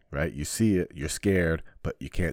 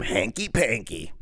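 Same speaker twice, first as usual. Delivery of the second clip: slow, high teasing singsong; mocking nickname; 4 semitones higher, 4 dB louder, slower than usual. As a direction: taunt the teacher's nickname slowly. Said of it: "That's what we used to call him".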